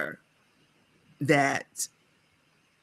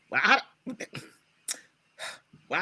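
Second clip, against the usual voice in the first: ordinary talk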